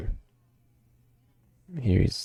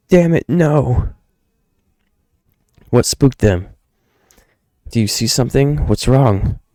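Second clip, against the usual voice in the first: high, louder character voice; alarmed cry, pitched up; desperate father, alarmed; 8 semitones higher, 4 dB louder than usual. Acted. Father startled on the trail, high alarmed voice.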